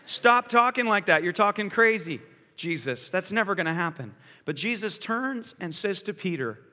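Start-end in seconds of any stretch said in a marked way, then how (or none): 0.0-4.1 binding rebuke. Retold or imitated. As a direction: order the words to stop. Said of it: "he binds Jesus".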